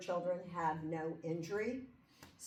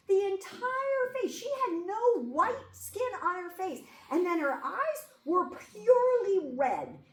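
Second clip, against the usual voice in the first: high, loud, choked-up retelling; retold sobbing; 11 semitones higher, 5 dB louder than usual. To the cop about her cases, high and sobbing. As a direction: sob it out in a high voice. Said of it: "and I'm just sobbing".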